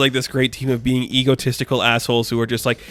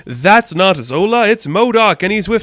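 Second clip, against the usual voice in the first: higher, startled villain catching on; higher alarmed exclamation; sudden realization; 8 semitones higher, 5 dB louder, slower than usual. Retold or imitated. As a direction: gasp it out as the disguise falls apart. King Cobra spots the impostors.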